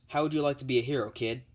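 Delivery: eager offer. Acted. Hero eagerly recruiting the boy.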